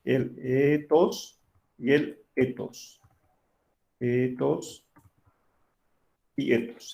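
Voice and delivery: two ethos takes, one with a lengthened vowel; slow teacher model of the two ethos forms; contrasting ethos. Shown as a demonstration. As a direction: slowly set the long e against the short e in ethos. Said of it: "hace que la vocal se alargue".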